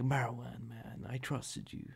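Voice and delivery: a hint of a mum's playful scolding; jokey reproach. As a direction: tease him with fake hurt. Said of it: "she said it in, like, a jokely way".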